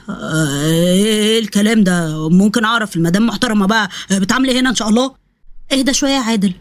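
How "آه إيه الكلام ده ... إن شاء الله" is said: low, drawn-out sarcastic man's voice; slow, mocking interrogation; sarcastic husband. Husband catching his wife at the doctor's, low sarcasm.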